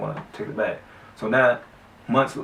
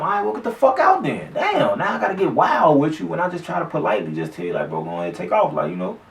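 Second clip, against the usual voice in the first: annoyed telling off; 6 semitones higher than usual. Retold or imitated. Telling friend to leave.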